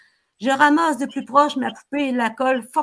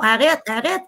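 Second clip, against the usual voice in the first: louder, a pleading mock yell; mother yelling; 3 semitones higher, 5 dB louder than usual. A mother yells at her husband: louder mock yell. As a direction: cry out stop, stop, half-acted. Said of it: "Elle crie fort".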